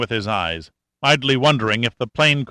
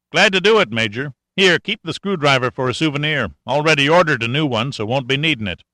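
lightly raised folksy sergeant voice; a hint of a wry country boy; country mechanic; 3 semitones higher than usual. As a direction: talk like a sly old country mechanic. Cashman voice held.

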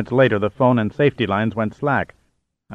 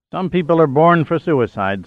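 yawning; 6 semitones higher than usual. A narrator's reading. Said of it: "said Giordino with a yawn".

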